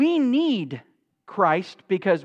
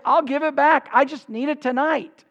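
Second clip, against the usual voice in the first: raised-pitch entreaty; pleading; 5 semitones higher than usual. Acted. Man promises his neighbor repayment, pleading. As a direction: bargain in a higher, urgent plea. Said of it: "continued in his pleading".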